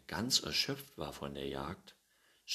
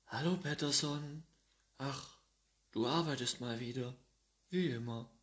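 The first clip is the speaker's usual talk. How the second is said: 1 nosy neighbour; 8 semitones higher than usual. Acted. Neighbour Gustafsson arrives, character voice.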